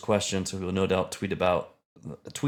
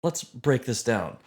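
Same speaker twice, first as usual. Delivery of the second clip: lightly voiced science lecturer; measured, emphatic explaining to a layman; Neil deGrasse Tyson; 2 semitones higher than usual. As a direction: patiently break it down like a popular scientist. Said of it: "my impression of Neil deGrasse Tyson".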